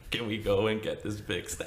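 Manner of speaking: very soft, small request; imitated meek plea. Hurt kid to scolding parents, meekly pleading. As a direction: ask meekly, barely voiced. Retelling his hurt, crying child self pleading.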